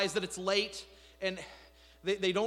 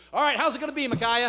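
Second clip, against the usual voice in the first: higher, louder demand; demanding king; 6 semitones higher, 6 dB louder, faster than usual. Retold or imitated. Ahab presses Micaiah for his verdict, demanding. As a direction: press him for the answer.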